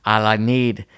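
put-on improvised Irish-Scottish character accent; put-on Celtic accent. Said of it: "who's from Ireland".

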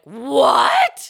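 loud, high, rising yell of disbelief; hammed-up incredulous outburst; shocked shout. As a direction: explode in exaggerated shock. Acts out her shocked reply.

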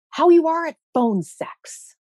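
mock sleazy caller; creepy boss voice. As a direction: drag out the come-on like a sleazy boss. Boss's creepy phone come-on quoted.

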